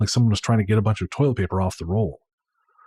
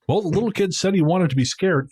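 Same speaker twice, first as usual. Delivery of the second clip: higher whiny excuse; 8 semitones higher than usual. Retold or imitated. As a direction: whine it like a defensive clerk. Voicing the defensive clerk.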